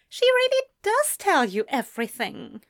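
high-pitched exasperated grumble; grumbling. A narrator's reading. Ezra finding out his sister gossips, grumbling. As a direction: complain in mild dismay. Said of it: "Ezra grumbled".

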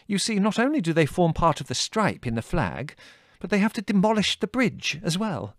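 put-on high, fussy old colonel, flustered; fretting old officer hunting lost scouts; agitated colonel. A narrator's reading. Colonel Velvet explaining.

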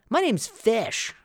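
slow, lightly voiced name drop; slow self-introduction. Host introducing himself to campers, slow and proud. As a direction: announce the name slowly and proudly. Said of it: "He goes".

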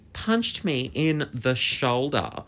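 slow, drawn-out account of the punch; slow reveal. Real, not acted. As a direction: stretch the words out for suspense. First telling of the punch.

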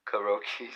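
"Karaoke" as kah-roh-kee, softly; soft Japanese-style "Karaoke", kuh-roh-kee; Japanese pronunciation. Shown as a demonstration. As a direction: say "Karaoke" with no "carry" in it. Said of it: "That's how it's pronounced".

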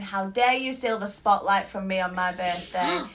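slow, hammed-up diva indignation; mock outrage. Friend retelling her birthday, mock offended. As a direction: playfully scold like a wronged birthday star. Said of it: "I was, like, not being serious".

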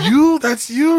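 high, loud mock disbelief; loud, squeaky-high incredulous reaction; retold shock. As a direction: imitate a friend's stunned outburst, pitch shooting up. Retelling friend's shock at reveal.

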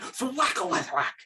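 drawn-out mock thwack; imitated bow noise. Showing how the bow went, imitated noise. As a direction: sound out a bow whipping loose.

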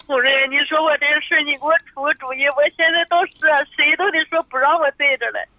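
tearful plea for advice; weepy, upset caller; real crying. Real, not acted. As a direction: plead while fighting back tears. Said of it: "别哭，这位女士".

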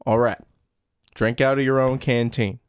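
Southern father giving in; Southern accent. Acted. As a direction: instruct the son with a Southern accent. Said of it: "Southern accents?".

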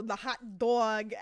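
drawn-out New York "hot dog"; Queens accent. Retold or imitated. Self-described Queens girl showing her hot dog, Queens accent. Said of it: "I'm the Queens girl that's always like".

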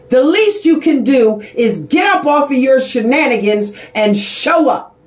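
raising her voice in real frustration; passionate outburst. Real, not acted. Advocate scolding people who skip the clinics, heated. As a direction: let it burst out, fed up with excuses. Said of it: "I'm getting emotional".

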